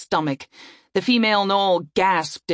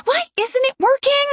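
dismayed; 3 dB louder than usual. A narrator's reading. Frustrated failed attack.

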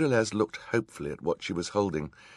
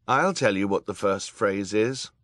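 calm; 4 semitones higher, 7 dB louder than usual. A narrator's reading. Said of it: "Klaus said calmly".

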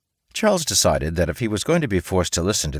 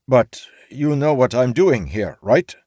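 higher, louder hopeful plea; hopeful samurai; 7 semitones higher, 5 dB louder than usual. A narrator's reading. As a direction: samurai hoping she understands.

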